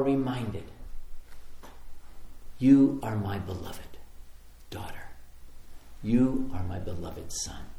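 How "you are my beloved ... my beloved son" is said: softly settling, measured pronouncement; tender words of God. Acted. Voicing God's tender words.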